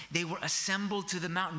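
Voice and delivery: usual speaking voice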